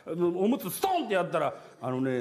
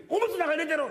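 calling to wife; 11 semitones higher than usual. Retold or imitated. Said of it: "って嫁に".

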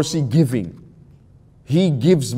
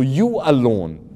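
slow, drawn-out emphasis on you alone; you alone, stretched out for emphasis; stress on you alone; slower than usual. Shown as a demonstration. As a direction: lean deliberately on "you alone". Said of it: "emphasis. Emphasis".

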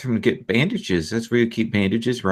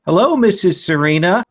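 higher, louder, solid greeting; 6 semitones higher, 5 dB louder than usual. Acted. Ellen greets Serena from the doorway, solid voice. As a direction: call out a firm, polite hello. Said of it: "a solid voice".

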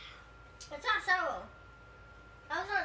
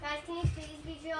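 softer, polite request; asking nicely; 4 dB quieter than usual. Real, not acted. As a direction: ask gently and nicely. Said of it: "I asked nicely".

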